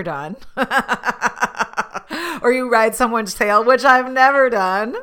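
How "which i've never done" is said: dry ironic denial; sarcastic. Real, not acted. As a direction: say it so nobody believes you. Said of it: "that's sarcasm if you can't tell by my tone".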